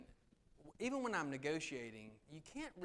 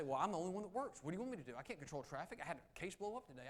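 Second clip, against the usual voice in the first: defensive; 4 semitones higher, faster than usual. Shown as a demonstration. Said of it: "I could get defensive".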